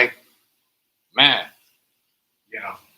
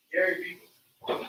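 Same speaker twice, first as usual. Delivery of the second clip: slow, put-on spooky "Scary people"; hammed-up creepy tone; 4 semitones higher, slower than usual. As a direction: drag it out like a ghost story. Mock spooky voice about people.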